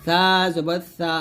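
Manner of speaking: সা as a light "th" with tongue at upper teeth; thin tongue-tip সা. Shown as a demonstration. Teacher showing tongue placement, সা said thin as "th". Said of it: "পাতলা করে বলবেন".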